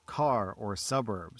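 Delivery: slow Californian R on car and suburb. Shown as a demonstration. Narrator showing her Californian R on "car" and "suburb". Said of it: "sound super Californian".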